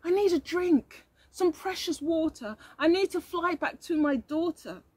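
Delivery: high, crying little bee voice; tearful bee. Acted. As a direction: plead through tears for water. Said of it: "Can you see she's crying".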